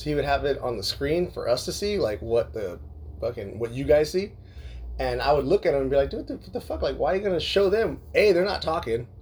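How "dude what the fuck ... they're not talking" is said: high-pitched exasperated griping, retold; bothered complaint. Griping to Bucks about what is on screen, retold exasperation. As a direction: replay your griping in a raised pitch. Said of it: "it bothers me".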